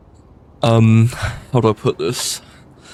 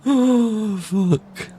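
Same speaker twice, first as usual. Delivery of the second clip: laughing; 11 semitones higher, much slower than usual. Real, not acted. Breaking character, laughing.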